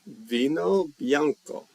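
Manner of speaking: slow, careful Italian "Vino bianco" with rolled vowels. Shown as a demonstration. Teacher practising Italian for the class, slow and careful. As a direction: sound out "Vino bianco" like a learner. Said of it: "learn how to say white wine in Italian".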